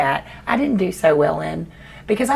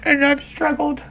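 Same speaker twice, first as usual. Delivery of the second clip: tearful; 2 semitones higher, 3 dB quieter than usual. Real, not acted. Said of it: "I'll just ugly cry on camera".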